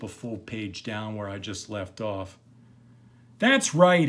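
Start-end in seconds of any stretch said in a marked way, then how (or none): 3.4-4.1 woman's voice. Acted.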